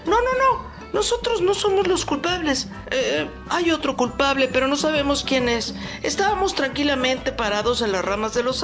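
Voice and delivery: frantic little birds protesting, very high. Acted.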